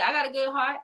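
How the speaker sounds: high-pitched plea of innocence; indignant protest. Retold or imitated. Repeats her protest to God.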